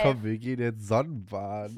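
teasing imitation of a basic girl; mocking an Ashley type. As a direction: parody the kind of person who says Sonnenbaden. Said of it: "ein richtiges Ashley-Wort".

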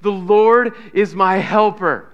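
loud, slow, emphatic declaration; like you need him. Shown as a demonstration. Preacher leading church to say they need God, emphatic. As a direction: declare it slowly and loudly, leaning on each word. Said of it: "say it like you, like you need him".

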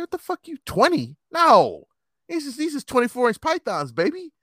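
high, loud showing-off bravado; hammed-up macho bragging; cocky brag. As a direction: boast about the arms like a big shot. Bragging retort to a girl.

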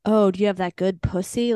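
imitating a leering stranger in a hushed whisper; creepy guy at the pool. Retelling a stranger at the pool, in a mock leering whisper. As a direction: breathe it out like a sleazy pickup line. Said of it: "yelling at me at the pool".

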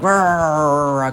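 imitated demon-possessed growl; demoniac roar. Preacher imitating the demon-possessed in the Gospels, roaring. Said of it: "they come like".

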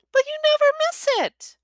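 very high anxious mother; mother urges son, very high; pleading mum. A narrator's reading.

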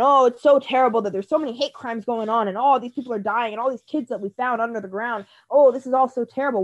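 mocking complainers, hollow concern; mock hand-wringing. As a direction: sigh out fake concern. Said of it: "love to complain".

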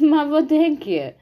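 high, loud question straight after a laugh. A narrator's reading. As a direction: ask it still amused from laughing. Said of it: "Rosa schoot in die lach". (lacherig, hoog en luid)

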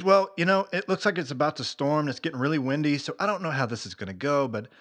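offhand quote, no pressure; calm, nonchalant. Retold or imitated. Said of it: "She's very calm, very nonchalant".

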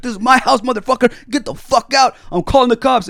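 high, very loud territorial yell; hammed-up furious shout; imitated irate kitchen guy. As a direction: roar it like the boss of the kitchen. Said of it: "I'm having a screaming match".

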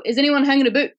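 imitation Northern Irish radio call; imitating a friend. Friend calling colleagues over the radio, imitated Northern Irish. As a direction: lightly mimic the Northern Irish catchphrase. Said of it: "He used to say on the radio".

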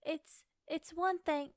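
slow, hesitant stab at British; attempted British accent. Retrying the Bridgerton line, shaky grasp of British accent. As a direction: fumble slowly into a British accent. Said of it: "how do I do British accent".

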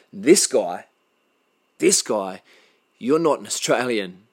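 loud, hard-hitting condemnation; angry denunciation. Real, not acted. Speaking to the attacker, loud angry denunciation. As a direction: cast him out, loud and furious.

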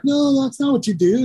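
high, put-on scolding tone; mock correction. Correcting imitated bandmate.

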